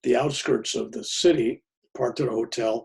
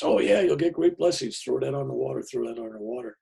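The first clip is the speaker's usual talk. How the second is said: mock eager townsfolk; 4 semitones higher than usual. Townsfolk egging them on.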